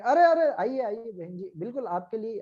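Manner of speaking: a hint of a market hawker calling out to a passing woman; mild mock sales pitch, beckoning; calling seller. Jaipur shopkeeper coaxing a lady shopper, lightly voiced calling.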